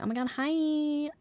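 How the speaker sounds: high, bright hello; excited greeting. Retold or imitated. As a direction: greet a coworker with delight. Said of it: "I was like".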